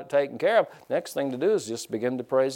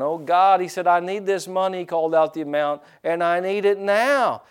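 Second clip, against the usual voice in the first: whiny prayer voice; 4 semitones higher than usual. Retold or imitated. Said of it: "he was doing that kind of praying".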